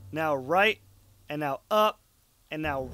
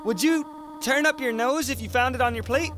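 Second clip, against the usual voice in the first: a lightly raised, kindly goat mom; gentle motherly voice; 3 semitones higher than usual. Acted. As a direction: read it as a caring mother calling. Voicing Toriel on the phone.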